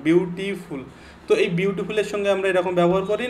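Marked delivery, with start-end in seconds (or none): 0.0-0.8 "বিউটিফুল" lightly divided into three syllables; quick recap of "বিউটিফুল" in syllables; broken into syllables. Shown as a demonstration. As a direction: say "বিউটিফুল" as three distinct beats, বিউ-টি-ফুল. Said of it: "আমি তিনটে syllabus এটাকে ভাঙলাম".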